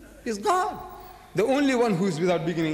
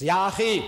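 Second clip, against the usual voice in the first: "Ya akhi" called out as an exclamation; opening exclamation. Shown as a demonstration. Showing how Arabic begins, "Ya akhi" exclaimed. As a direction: hit "Ya akhi" as a vocative cry. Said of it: "We begin with an exclamation".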